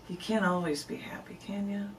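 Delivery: soft whisper, half-joking; whispered aside. Real, not acted. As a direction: drop to a whisper for the wry aside. Wry aside after sad poem.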